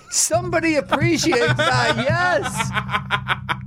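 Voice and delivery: big room echo; laughing in a reverberant room; reverb. Real, not acted. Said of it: "I'm sorry for the reverb".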